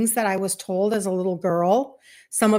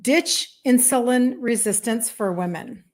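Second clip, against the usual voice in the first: each word of the name spelled out with care; a clear, deliberate read of the name; said slowly. Shown as a demonstration. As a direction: lay the group name down one word at a time. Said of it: "I'll say it slowly".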